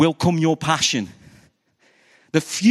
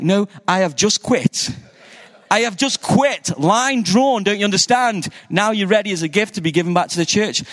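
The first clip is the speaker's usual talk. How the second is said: exasperated protest; 4 semitones higher than usual. Retold or imitated. Protesting to God.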